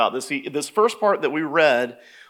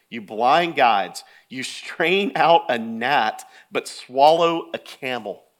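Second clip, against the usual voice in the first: slow, deliberate denunciation; measured, drawn-out scolding; weighty rebuke; 3 semitones lower, slower than usual. Acted. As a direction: spell out the absurdity phrase by phrase. Reading out Jesus' rebuke.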